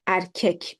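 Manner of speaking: "erkek" with e in both syllables; correct pronunciation. Shown as a demonstration. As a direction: say "erkek" as er-kek, front vowels throughout. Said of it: "because of e".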